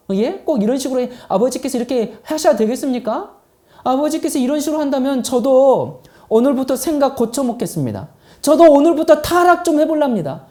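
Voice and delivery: 아버지에게 억울함을 따지는 연기; 살짝 언성을 높여 조목조목 따져 묻기; 고함치며 항의하는 큰아들. Acted. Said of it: "계속 고함을 지릅니다". (억울해서 아버지께 대드는 말투로)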